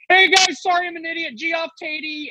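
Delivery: high, mocking sing-song sorry; goofy fake apology. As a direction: deliberately botch the name as a tease. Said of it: "I can't wait to go up there and be like".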